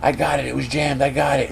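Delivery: a contained pretend yell; acted urgent callout; mock scream. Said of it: "you hear his voice scream out".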